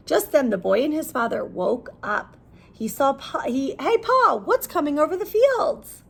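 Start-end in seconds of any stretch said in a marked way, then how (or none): 3.8-6.0 put-on boy calling. Boy calls to father.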